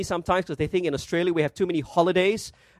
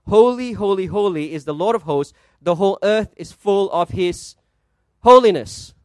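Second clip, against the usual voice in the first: mildly raised cry, loud final HOLINESS; 5 dB louder than usual. Acted. Preacher voicing the cry you'd expect from seraphim, crying out. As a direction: proclaim it, pausing before a punched "holiness". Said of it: "They cry out".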